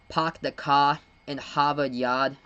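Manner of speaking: slow sample Boston accent; casual demo of a Boston accent. Shown as a demonstration. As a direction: say it slowly with dropped Boston R's. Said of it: "a sample of the Boston accent".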